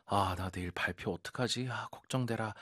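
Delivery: soft, worried mutter to oneself; a quiet fretful groan before a presentation; worried sigh. Acted. Student fretting about tomorrow's presentation, softly worried.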